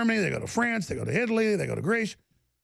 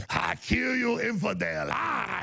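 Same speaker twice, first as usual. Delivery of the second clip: mock kidnapper shout; 5 semitones higher than usual.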